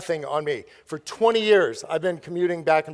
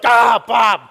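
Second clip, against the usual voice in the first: loud, higher cry of exasperation; mock outraged yell; 4 semitones higher, 10 dB louder than usual. Friend discovering the huge bill, mock outraged yell. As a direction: imitate a pranked friend yelling in outrage.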